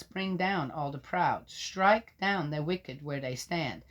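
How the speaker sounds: solemn public reading of Job; scripture reading. Acted. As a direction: proclaim it like a lector. Reads scripture aloud.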